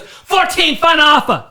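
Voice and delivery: high, loud drawn-out Asian-accent imitation; mock Asian-accented customer at full volume; thick mock Asian accent. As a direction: yell the haggle in a hammed-up Asian accent. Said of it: "she had a very thick, like, an Asian type thing".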